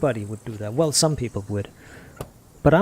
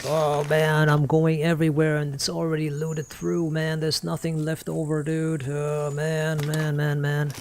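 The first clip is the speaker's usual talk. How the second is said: whiny complaint; slower than usual. Retold or imitated. Streamer imitating a complaining looter, whiny. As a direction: moan like a sulking looter. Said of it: "he's like".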